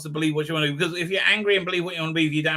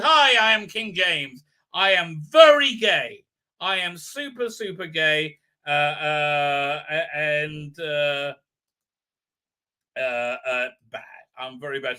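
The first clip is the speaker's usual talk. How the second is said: mock King James; 2 semitones lower, 3 dB louder, slower than usual. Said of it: "pulls his mask and says".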